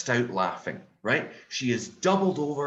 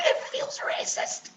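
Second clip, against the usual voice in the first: whispered aside; slower than usual. Acted. Whispered aside after joke.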